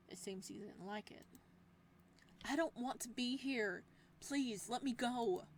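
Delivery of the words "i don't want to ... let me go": pleading. Acted. Captive begs to be freed.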